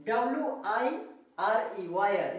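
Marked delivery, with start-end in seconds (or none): 1.9-2.4 वायर as "waa-yar"; correct reading of वायर. Shown as a demonstration. Teacher reads the spelled word, correct वायर. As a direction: model वायर ending in "ar", no final "ee". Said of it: "इसको पे क्या पढ़ेंगे".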